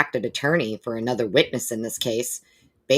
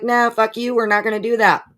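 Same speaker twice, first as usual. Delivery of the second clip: much higher, loud, mocking refusal; defiant brush-off; 10 semitones higher, 5 dB louder than usual. Mister Gray defiantly refuses the warning, mocking. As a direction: sneer it back as a cocky lawyer. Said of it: "Mister Gray is basically like".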